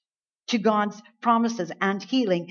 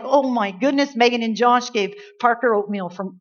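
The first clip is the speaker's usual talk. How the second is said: mock excitement; 3 semitones higher, 5 dB louder than usual. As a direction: gush as if it were astonishing news. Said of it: "Are we all excited like".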